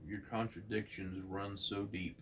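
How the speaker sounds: grave, measured cosmic proclamation; Watcher's speech. Acted. Narrator reading the Watcher's verdict to Betty, solemn. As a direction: pronounce doom on Earth like an ancient watcher. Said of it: "The Watcher says".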